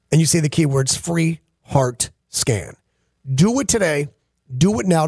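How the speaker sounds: earnest, measured sponsor pitch; live ad read. Acted. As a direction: urge listeners deliberately, with pauses between points. Host gives a live sponsor read.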